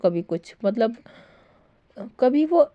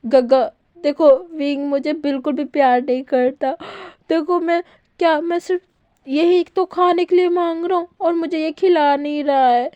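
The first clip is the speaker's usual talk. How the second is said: whiny near-tears; 6 semitones higher than usual. Acted. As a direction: complain like you're about to cry. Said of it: "रोने वाला एकदम शक्ल बना लेता है".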